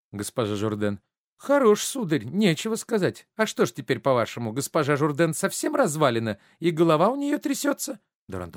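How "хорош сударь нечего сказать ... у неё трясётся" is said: high-pitched, indignant scolding; offended outburst. Acted. Madame Jourdain insulted about her age, indignant high outburst. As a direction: take loud, high umbrage.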